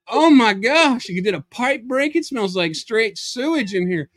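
high, loud, stretched opening cry; shocked outcry. Acted. Somebody outside the bathroom reacts to smell, high shocked outcry. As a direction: act out appalled disbelief.

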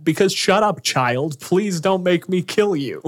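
high, loud mock snap at the kid; snapping father. Father snapping at his daughter, loud and high. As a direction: bark it at a pestering child, half-hammed.

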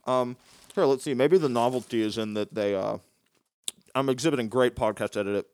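talking with a mouthful of cookie; chewing while talking; mouth full. Real, not acted. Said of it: "talking with my mouth full".

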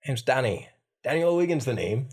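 put-on Dublin-style Irish accent; city Irish accent. Shown as a demonstration. Lad introducing himself, city Irish accent. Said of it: "city Irish accent".

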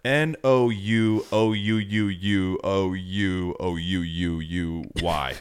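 slow, stretched New Zealand no; Kiwi accent. Retold or imitated. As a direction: drag the Kiwi no out endlessly. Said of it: "the Kiwi accent".

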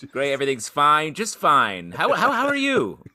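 loud bluffing all-is-fine, jumping high at the end; Han Solo. Retold or imitated. Host mimicking Han Solo's bad lie, nervously over-cheerful. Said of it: "It's very Han Solo in".

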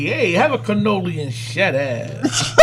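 slow, hammed-up New York Italian voice; mock tough-guy New York accent. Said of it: "That's called the New York accent".

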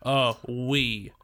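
put-on deadpan French with an American accent. American trying French in court, with American accent. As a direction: speak French in plain American sounds. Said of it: "French words in an American accent".

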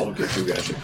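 a hint of a low cartoon villain. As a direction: growl it like a bad cartoon villain. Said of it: "horrible Sokolov impression".

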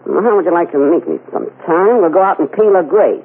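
Mae West impression. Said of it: "This is Mae West".

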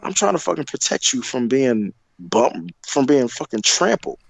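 high, fast exasperated retort; retold outburst. Retelling his angry reply at the concert. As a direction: fire back in disbelief. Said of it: "I'm like".

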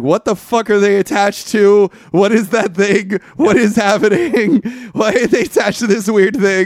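loud, high-pitched exasperated disbelief; hammed-up baffled rant; bewildered outburst. Acting out own bewildered reaction.

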